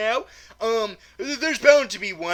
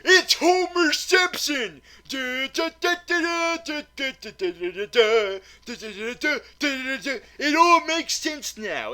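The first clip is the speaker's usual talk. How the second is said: much higher and louder, slow triumphant reveal; eureka moment; 7 semitones higher, 5 dB louder, slower than usual. Real, not acted. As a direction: announce the discovery like a big revelation. Sudden realization about the teacher.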